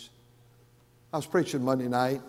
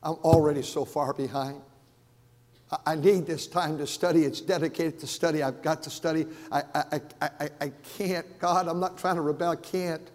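put-on pleading young preacher. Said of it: "And he said".

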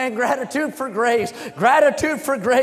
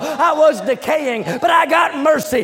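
rising cry; 3 semitones higher, 3 dB louder than usual. Acted. Preaching climax, leper's cry.

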